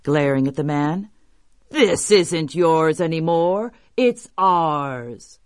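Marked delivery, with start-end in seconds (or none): 1.7-5.4 slow, heavy-paced monster claim; defiant monster. Acted. Biggest tokebi claiming farmer's house, slow defiant monster. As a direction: draw it out like a big creature. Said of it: "cried the biggest tokebi".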